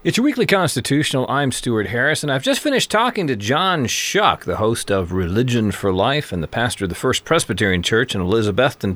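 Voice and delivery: upbeat announcer read into the break; on-air host voice; radio host intro. Acted. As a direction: present the show like a radio host. Radio show intro and outro.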